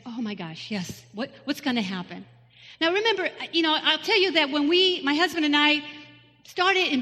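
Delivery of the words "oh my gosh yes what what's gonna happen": hushed, alarmed thinking aloud; quiet dread to yourself; realising the pastor knows her story, hushed and alarmed; panicked inner thought. Retold or imitated. Inner panic at breakfast table.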